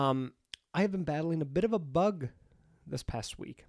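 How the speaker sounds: stuffy blocked nose from a cold; nose pinched. Real, not acted. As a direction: talk through a stuffed-up nose. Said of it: "sounds like I have a clothespin on my nose".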